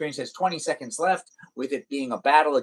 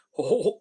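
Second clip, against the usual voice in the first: Goofy laugh; 4 semitones higher than usual. Shown as a demonstration. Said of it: "I can do the laugh".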